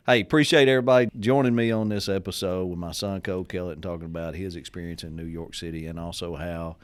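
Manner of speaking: upbeat host sign-off read; podcast outro. Acted. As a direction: thank the listeners like a show host.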